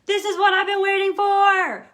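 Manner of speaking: high, loud gushing delight; mock-ecstatic new director finally getting her chance; thrilled newbie. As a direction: burst out like a dream just came true. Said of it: "you're gonna be like".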